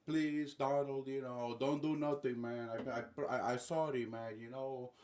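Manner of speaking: lightly voiced nervous begging; mock pleading, hesitant and placating; Nicolás Maduro. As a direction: backpedal apologetically in a put-on accent. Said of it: "just begging Donald, like".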